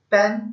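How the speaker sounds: पेन isolated as one syllable; पेन set apart as the second syllable; single syllable. Shown as a demonstration. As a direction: say पेन in one beat, then pause. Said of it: "जुबान की एक हरकत से अदा करता हूँ".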